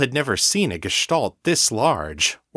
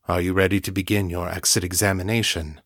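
grave telepathic voice; 3 semitones lower, faster than usual. Acted. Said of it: "The elder's telepathic voice was grave".

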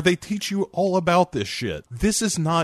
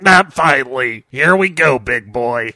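seductive mummy voice; 7 dB louder than usual. Acted. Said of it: "Amonette jumps on him and is like".

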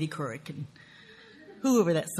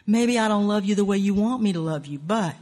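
louder, insistent acted comeback; acted quarrel, louder self-justification; defensive lover; 3 semitones higher, 5 dB louder than usual. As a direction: argue back at a lover, then break off.

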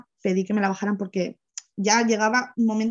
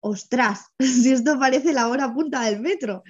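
amused surprise; 3 semitones higher than usual. Retold or imitated. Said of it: "Yo entré y dije".

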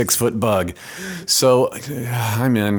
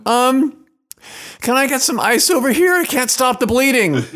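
put-on nervous young assistant; 14 semitones higher, 5 dB louder than usual. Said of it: "the next voice I hear is a young P A, going".

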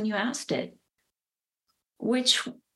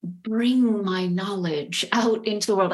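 airy fairy voice. Acted. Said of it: "that kind of cloud, like, airy fairy voice".

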